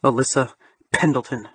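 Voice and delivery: low barked full name. Acted. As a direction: bark the name back low. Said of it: "he barks back at me".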